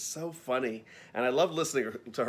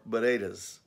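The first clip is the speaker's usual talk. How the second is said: put-on Boston accent; 3 dB louder than usual. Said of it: "Massachusetts negative positive".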